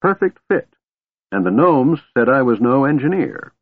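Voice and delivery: distracted, pottering old wizard. Fizban voiced by narrator.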